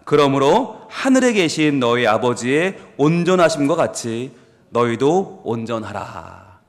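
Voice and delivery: slow solemn reading of the verse; measured solemn recitation; scripture reading. Acted. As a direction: read it out like holy writ.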